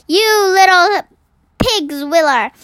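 read-aloud roar. A narrator's reading. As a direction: shout it at the little intruder. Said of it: "roared the Blood Bolter".

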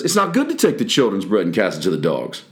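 wry sarcastic remark to disciples; sarcastic question. Shown as a demonstration. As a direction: toss "dogs" off with a question mark. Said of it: "Once again, with a question mark".

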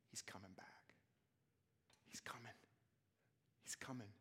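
whispered urgent news, softly; hushed whisper. Retold or imitated. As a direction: whisper it like a secret announcement. Urgent message preached to world.

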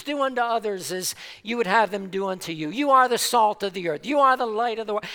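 quick, dismissive run through stock phrases; rattled-off platitudes. Retold or imitated. Preacher mocking how churches repeat verses, rattled off fast. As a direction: toss them off like tired church slogans. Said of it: "become pious platitudes".

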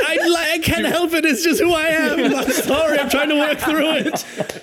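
high, laughing fake apology; the speaker, laughing, pretends to be sorry to Bob; mock contrite. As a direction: apologize without meaning it.

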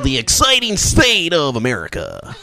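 hammed-up radio announcer; lightly voiced radio host. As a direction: say it like an on-air announcer. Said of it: "I'm doing the radio voice".

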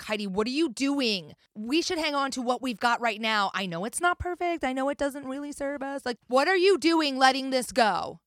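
mild mock scolding from a panicked child; lightly voiced twelve-year-old protesting; screaming inner child. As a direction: plead like an alarmed inner child, without really screaming. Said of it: "inner child would be screaming at me".

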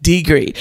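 degree said like mom says it, singular; mom's way of saying degree. Retold or imitated. Daughter mimics how mom says degree. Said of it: "that's how she says degrees".

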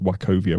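"Wachovia" said with a hard K; correct pronunciation. Shown as a demonstration. Quizmaster settling how the bank is said, "Wachovia" as wa-KOH-via. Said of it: "I think it's pronounced".

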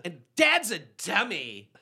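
bratty daughter jab. Retold or imitated. Voicing daughters mocking dad.

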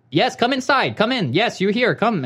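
high-pitched imitated Indian-sounding accent; insistent welcome in a mock Indian accent; Ray. Ray urging the caller into the building, imitated Indian-sounding accent. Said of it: "Why does he sound Indian?".

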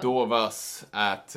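slow Swedish-sounding name; Swedish accent. Real, not acted. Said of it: "listen to his Swedish accent".

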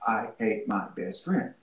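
fast teacher advice. Retold or imitated. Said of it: "I'll say".

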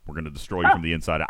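normal talking voice

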